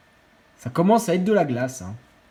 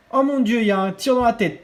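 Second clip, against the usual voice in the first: surpris; 4 semitones higher than usual. Real, not acted. Surprise, tir dans la tête.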